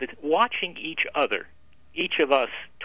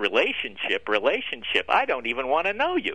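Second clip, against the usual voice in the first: ordinary talk, nothing marked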